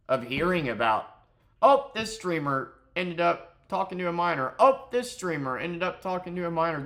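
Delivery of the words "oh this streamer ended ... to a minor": higher, louder parroted exclamation; mock gossip. Fed-up streamer mimicking endless scandal reports, mock shocked. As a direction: parrot the same tired news with exasperation.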